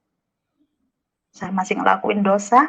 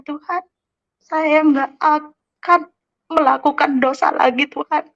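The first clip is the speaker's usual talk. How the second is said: retold tearful prayer; 3 semitones higher than usual. Retelling her midnight prayer to God, tearful and pleading. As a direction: plead with God as if still crying, stretching the words. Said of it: "Dan akhirnya saya nangis".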